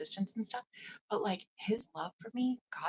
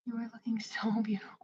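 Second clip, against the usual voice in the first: twin flame's voice; 3 semitones higher than usual. Retold or imitated. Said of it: "heard my twin flame telepathically".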